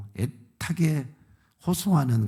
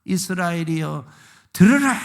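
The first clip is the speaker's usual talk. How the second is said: crying out; 3 semitones higher, 3 dB louder than usual. Retold or imitated. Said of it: "하고 외치는 겁니다".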